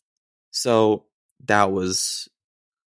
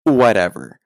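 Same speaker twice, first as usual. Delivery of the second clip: dismissive whatever; 6 dB louder than usual. Retold or imitated. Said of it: "I could practically hear her go".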